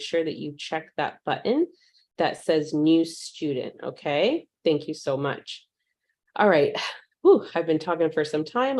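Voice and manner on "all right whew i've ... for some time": winded from talking a long time; slightly breathless, catching her breath. Real, not acted. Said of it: "I'm a little out of breath".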